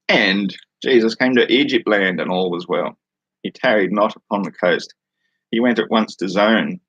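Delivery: measured, even read-aloud cadence; scripture reading. Acted. Streamer reads listeners a random book passage, measured scripture reading. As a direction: read it out as solemn verse.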